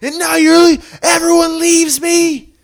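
high, loud, tearful reenactment; emotional movie quote. Retold or imitated. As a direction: belt out the heartbroken line. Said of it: "Killed me".

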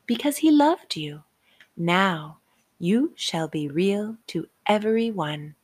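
a hint of a kindly fairy; tiny tinkling fairy voice. Fairy reassures the rabbit.

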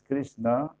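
"Krishna" drawn out to krish-NAA; slow "Krishna" with a lengthened ending; long final a. Shown as a demonstration. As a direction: stretch and stress the last a of "Krishna". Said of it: "eso ya es Durga".

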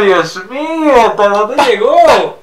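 very slow, drawn-out exclamation; mock dismay. Cohost mocking the friendship-topic segue, very slow. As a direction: stretch it out in exaggerated disbelief.

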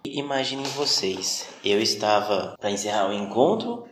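usual speaking voice

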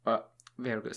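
talking around scissors in mouth; words muffled by object in mouth; mouth full. Real, not acted. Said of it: "Sorry, I have scissors in my mouth".

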